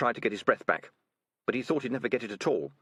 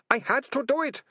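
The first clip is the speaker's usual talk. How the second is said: high-pitched, louder wailing moan; 5 dB louder than usual. Acted. Deputy ratcatcher confessing to his captors, moaning high. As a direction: wail it as a desperate excuse. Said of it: "Ratcatcher Two moaned".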